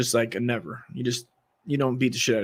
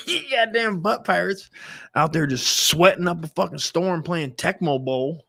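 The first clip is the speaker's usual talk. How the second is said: mom scolding; 5 semitones higher than usual. Retold or imitated. Mom berating two biker dudes, high mock scolding. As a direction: tell them off, half laughing. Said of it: "telling him".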